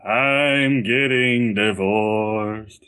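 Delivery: slow, drawn-out joke voice; funny voice. Pretend. Asked by his friend to announce it in a funny voice, slow and drawn out. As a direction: stretch it out like a silly bit. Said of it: "Do it in a funny voice".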